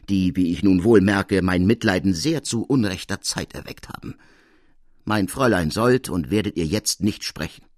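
a hint of a stern old woman barring the door; firm and strong. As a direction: stand your ground and send him off. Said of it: "sprach stark und fest".

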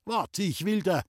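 high, urgent yell while grappling; a strained high cry in a struggle; angry shout. A narrator's reading. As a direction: shout at the fleeing lad. Old man grabs the intruder.

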